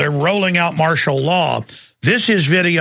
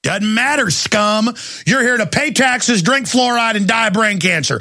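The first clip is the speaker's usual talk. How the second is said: mock brutal cop; 5 semitones higher than usual. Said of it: "cops scene, dog attack".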